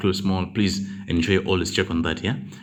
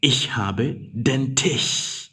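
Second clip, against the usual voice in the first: very slow, each word apart; slow dictation; 4 semitones higher, much slower than usual. Shown as a demonstration. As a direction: read it slowly for the class. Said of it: "you say".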